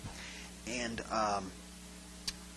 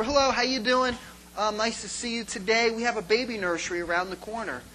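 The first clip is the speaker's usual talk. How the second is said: greeting usher; 4 semitones higher than usual. Retold or imitated. Acting usher greeting family at door.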